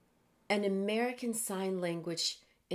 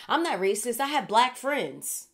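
racist person voice; 2 semitones higher, 4 dB louder than usual. Retold or imitated. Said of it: "that racist person that says this".

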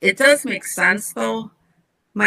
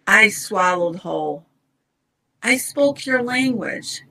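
slow, measured poetry recital; poem reading. Acted. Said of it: "Let me read it to you".

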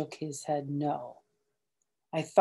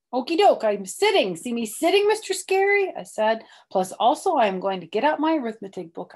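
high, loud eager schoolgirl voice; eager little girl; 6 semitones higher, 11 dB louder than usual. Acted. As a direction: chirp it like a kid trying to please. Reader voices Junie B.

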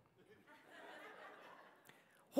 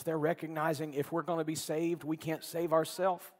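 ordinary delivery

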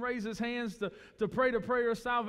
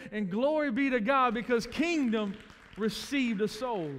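preaching praise; 3 semitones higher, 4 dB louder than usual. Real, not acted. Preacher's climax.

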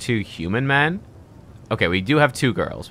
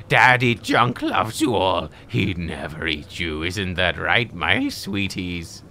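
mock cooing; 4 semitones lower, slower than usual. Trader coos to his slaves.

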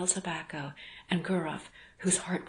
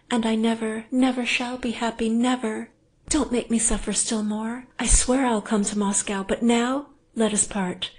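loud, high, desperate begging; frantic pleading woman; 5 semitones higher, 7 dB louder than usual. Acted. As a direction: implore him to leave now.

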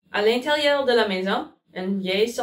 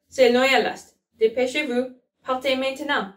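urgent call; 5 semitones higher, 4 dB louder than usual. Acted. Rat urges children to hurry.

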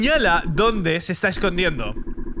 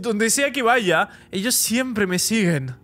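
panicked Larry. Acted. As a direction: plead like he's about to be caught. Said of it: "Y está enloqueciendo completamente".

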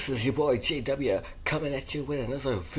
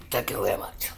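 laughing; 9 semitones lower, 5 dB quieter, faster than usual. Real, not acted. Laughing thanks.

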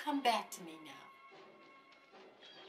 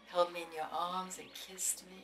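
whispering; 3 semitones lower, 5 dB quieter than usual. Acted. Whispered memory.

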